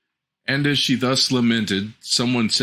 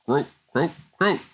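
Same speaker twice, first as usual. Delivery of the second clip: frog croaks; 7 semitones higher than usual. Acted. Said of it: "to scream this".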